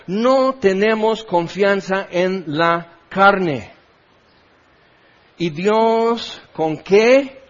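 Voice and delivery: very slow, weighty sermon delivery; slow preaching. Acted. Pastor pressing the point on the congregation, very slow emphasis. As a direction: drag every word to drive it home.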